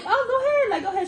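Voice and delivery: laughing go-ahead. Retold or imitated. Laughing dismissive repeat.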